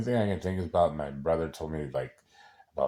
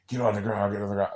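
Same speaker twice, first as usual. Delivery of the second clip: loud, higher-pitched mock cop shout; raised-voice command, acted out; imitated police order; 6 semitones higher, 7 dB louder, faster than usual. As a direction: order someone down like police, urgently. Acting out police ordering him down.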